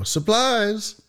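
high cry of "Supplies!"; movie quote shout. Retold or imitated. Quoting the UHF movie scene, high excited shout. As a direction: shout it like the janitors bursting out. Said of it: "and they go".

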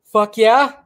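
spontaneous hype shout; odd excited yell. Real, not acted. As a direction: blurt it like a rowdy cheer. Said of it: "I don't know why I just said it like that".

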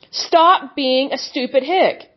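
slow, each word hammered; slow deliberate rebuke. Real, not acted. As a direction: spell the insult out slowly.

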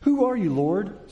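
a high, loud, startled cry; struck-down Saul crying out to the voice; startled question. Acted. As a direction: blurt it out, shaken. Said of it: "Saul asked".

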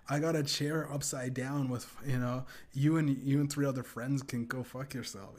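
retold roast. Hammering a guy in a roast session, mocking. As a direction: replay yourself going in on someone. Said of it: "I was going in like".

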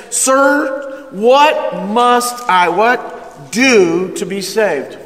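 slow, earnest, desperate question; emphatic plea. Retold or imitated. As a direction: beg for the answer with full weight. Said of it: "it was very emphatic".

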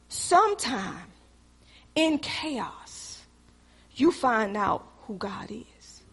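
soft, slowed, near-whispered truth; hushed whisper. Acted. Preacher whispering to the church about chaos. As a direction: drop to a whisper and let it sink in.

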